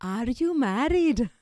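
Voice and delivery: mock matchmaker's enquiry, drawn out; the ultimate question. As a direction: stretch it out like a nosy relative. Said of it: "And then the ultimate question".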